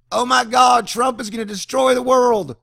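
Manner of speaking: very high, loud doomsday wail; mock hysteria. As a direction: shriek the same panic in parody. Mocking Democrats' panic in 2016.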